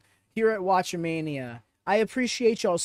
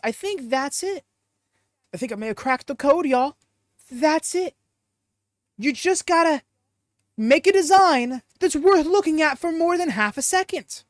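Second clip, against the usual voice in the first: excited eureka; 6 semitones higher, 5 dB louder than usual. Real, not acted. Excited at cracking the code.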